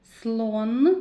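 teacher isolating the vowel sound. Shown as a demonstration. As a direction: hold the О in Слон. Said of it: "О, голосний".

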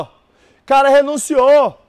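"renunciou" drawn out slowly; slow emphatic repeat. Shown as a demonstration. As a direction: spell it out slowly to the class, stretching "renunciou". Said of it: "repeats the phrase slowly". (professor repete devagar, enfatizando "renunciou")

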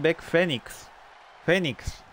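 "Phoenix" said as "Fénix", repeated. Shown as a demonstration. Streamer practises the corrected name, saying "Phoenix" as "Fénix". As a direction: stress the first syllable, "FE-niks". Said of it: "Así".

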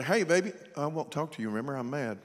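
low, soft, comically calm grudge; hammed-up meek refusal to talk; mock mild anger. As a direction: say you're mad as quietly as you can. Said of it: "I ain't never heard no woman do that".

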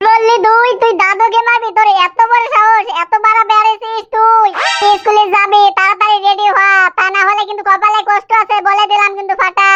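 a mother snapping at her son who threatens grandpa; angry scolding mother. Acted. Mother scolds her son who won't go to school, angrily.

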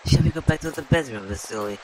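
hammed-up seductive British voice; sultry Lara Croft parody. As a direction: purr it like a vamping game heroine.

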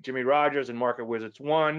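normal talking voice

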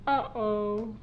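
put-on slurred babyish drunk voice. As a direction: whine like a drunk baby. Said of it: "Why do you sound like a drunk baby?".

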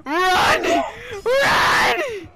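frantic yelling to run; panicking gamer. Real, not acted. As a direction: urge them on in panic. Teammate chased by killer.

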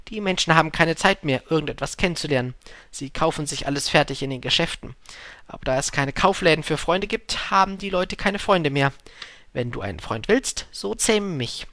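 lightly voiced storybook fox with a point to make; mildly animated, urging; fox, earnestly lecturing.

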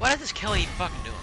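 raging gamer. Real, not acted. Teammate doing nothing.

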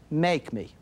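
acted dare from a stubborn kid; defiant child. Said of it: "looks you in the eye and says".

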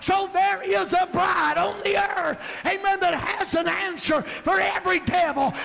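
rising, shouted preaching build; full-force preaching. Acted. Preacher climbs again.

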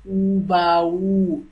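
"ubao" said slowly, first u held long. Shown as a demonstration. Tutor showing Hindi learners "ubao" with a long u. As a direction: draw out the opening u of "ubao". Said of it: "u is lengthier".

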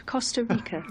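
lightly put-on Oxbridge accent; a hint of Oxbridge English. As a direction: say it in a mock Oxbridge voice. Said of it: "get my Oxbridge voice out".

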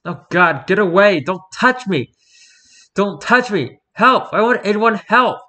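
high, loud terrified shrieks for help; panicked screaming. Acted. Strapped prisoner screams at security, high terrified yells. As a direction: scream to get them off you.

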